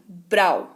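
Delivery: "ब्राउ" said low with a falling glide; pronunciation demo. Shown as a demonstration. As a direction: say "ब्राउ" as one gliding syllable, ending in an ow sound. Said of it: "इसको ब्राउ पढ़ते हैं".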